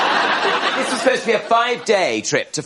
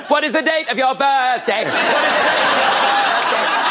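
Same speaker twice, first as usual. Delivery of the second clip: absurd schoolboy question; 8 semitones higher, 3 dB louder than usual. Retold or imitated. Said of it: "hypermarket going".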